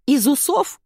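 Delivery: high, slow-witted voice asking back; dull puzzled question. A narrator's reading. Ирка dimly asks Зайка back, high and blank. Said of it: "тупо переспросила Ирка".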